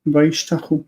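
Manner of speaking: "Vayishtachu" with the stress on "tach"; "Vayishtachu" ending on an unstressed u; stress before final u. Shown as a demonstration. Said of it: "the stress remains in the syllable before it".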